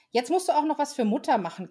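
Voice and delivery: put-on high nagging children; whining children. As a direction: pester him for mother. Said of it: "quengelten die Kinder".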